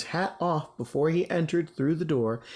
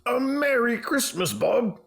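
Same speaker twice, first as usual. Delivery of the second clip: sincere; 9 semitones higher, 3 dB louder than usual. Acted. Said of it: "with a sincerity that could not be mistaken".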